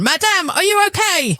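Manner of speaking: high, polite concern; concierge voice. A narrator's reading. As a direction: ask gently as a concierge.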